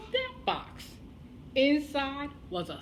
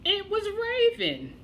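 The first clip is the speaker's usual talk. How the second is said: dramatic reveal; 10 semitones higher, 4 dB louder than usual. A narrator's reading.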